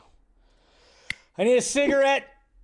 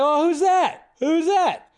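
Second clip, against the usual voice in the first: surprised question; 12 semitones higher, 5 dB louder, slower than usual. Retold or imitated. Friend asks who Batman is.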